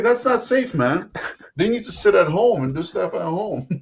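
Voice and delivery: high-pitched incredulous protest, breaking into a laugh; amused protest. Retold or imitated. Guest retelling his reaction to risky card drops, amused high protest.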